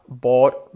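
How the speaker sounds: "bought" with a rounded O, like "boht"; O-like vowel. Shown as a demonstration. Teacher shows the other extreme of "bought", rounded O. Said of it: "Puede ser un poco".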